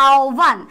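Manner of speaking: "আওয়ান" as ao-bhan, হ turned into o; correct pronunciation. Shown as a demonstration. Teacher shows how the word should sound, "আওয়ান" as ao-bhan. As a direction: say "আওয়ান" in two parts, ao then bhan. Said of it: "আহ্বানটা কেমন হবে".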